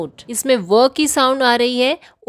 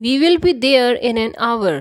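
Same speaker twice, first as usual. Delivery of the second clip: slow example sentence; much slower than usual. Shown as a demonstration. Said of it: "यानी कि हम एक घंटे में".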